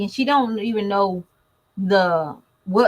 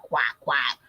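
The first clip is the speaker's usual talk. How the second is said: imitated duck; 8 semitones lower than usual. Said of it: "all the animals that he can sound".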